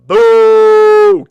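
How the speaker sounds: sudden high, very loud boo; jump-scare boo. Pretend. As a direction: startle the audience with a yell. Jump-scare shout at viewers.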